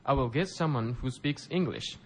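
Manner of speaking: slow, careful teacher model line; slow model read. Shown as a demonstration. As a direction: say it slowly for learners to repeat. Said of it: "皆さんも一緒にリピートしてください".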